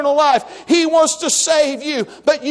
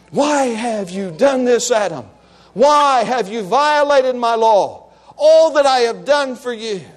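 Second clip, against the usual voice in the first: God's reproach; 5 semitones lower than usual. Acted. Voices God reproaching Adam.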